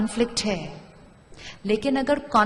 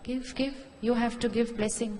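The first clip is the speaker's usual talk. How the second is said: ordinary talk, nothing marked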